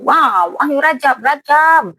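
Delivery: high, excited rallying cries of a crowd; mock mob shout. Crowd calling to stone the woman, mock mob shout. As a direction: egg on the crowd, pitch leaping up.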